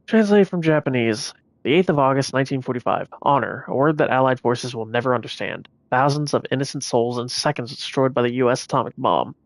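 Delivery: reading a solemn document aloud; dramatic reading. Acted. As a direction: read it like a grave wartime record. Reads in-game document aloud.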